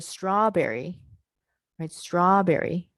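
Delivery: "strawberry" with a long "straw", then a distinct B; W and B separate. Shown as a demonstration. Teacher proving it is no cluster, "strawberry" with W and B kept distinct. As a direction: stretch "straw" and start "berry" cleanly in "strawberry". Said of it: "hear both the W sound and the B sound as separate".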